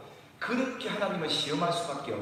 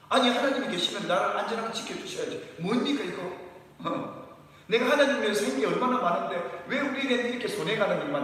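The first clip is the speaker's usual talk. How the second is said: imitating a believer's complaint; 5 semitones higher than usual. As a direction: protest to God as a wronged believer. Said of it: "막 이런 거거든요".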